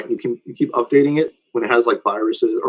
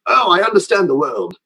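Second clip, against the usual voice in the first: higher, mock-naive sudden insight; mock revelation; 6 semitones higher than usual. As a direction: parody a smug eureka moment. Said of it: "all of a sudden they're like".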